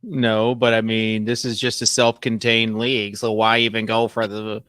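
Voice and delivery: a hint of a nasal nerd; lightly voiced nerd. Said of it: "Are you doing a nerd voice?".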